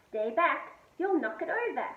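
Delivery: loud, high brush-off; scowling. A narrator's reading. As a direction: push her away crossly. Felix warns his sister.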